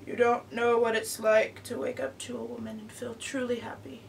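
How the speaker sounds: movie star impression. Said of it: "Oh my god. That was so bad".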